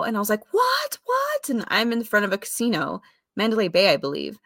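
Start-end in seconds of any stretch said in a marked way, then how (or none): 0.5-1.5 high, startled double what; retold panic. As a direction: replay the panic of hearing the news. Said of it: "I remember freaking out".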